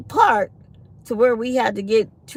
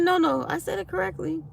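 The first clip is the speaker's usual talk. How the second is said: higher, mock-stubborn repeat of his claim; mock insistent man; 8 semitones higher, 6 dB quieter than usual. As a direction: imitate the man insisting he said it right. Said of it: "He said".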